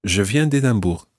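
"d'Édimbourg" said as one joined word; run-in elision. Shown as a demonstration. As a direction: run the D straight into "Édimbourg". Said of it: "it's D apostrophe Édimbourg".

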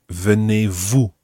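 "Venez-vous" slowly, each vowel distinct; careful sounds. Shown as a demonstration. Teacher asking learner to watch sounds, "Venez-vous" slow and careful. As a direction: model "Venez-vous" as vuh-nay-voo, slowly. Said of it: "Watch your sounds again".

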